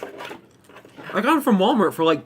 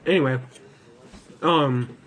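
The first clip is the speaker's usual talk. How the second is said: talking around a jelly bean; words round a sweet in the mouth; mouth full; 4 semitones lower than usual. Real, not acted. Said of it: "I had a jelly bean in my mouth".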